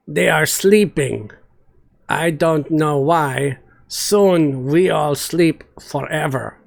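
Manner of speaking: gloomy talk of rotting bones; brutish Olga voice. Acted. Olga answers Yara grimly.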